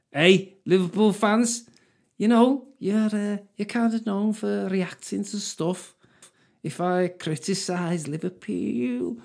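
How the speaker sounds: high mocking voice addressing Liverpool fans.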